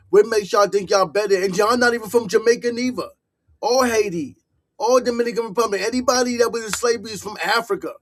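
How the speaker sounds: fast, heated run of accusations. Real, not acted. Vlogger calling out Caribbean claims, fast and heated. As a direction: rattle it off, fired up.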